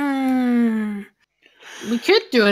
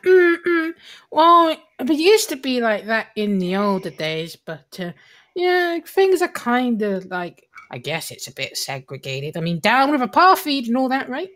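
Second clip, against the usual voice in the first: a hint of squeaky cartoon mouse, pitch jumping up; lightly voiced character with Mickey Mouse squeaks. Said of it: "Why does she have a Mickey Mouse voice?".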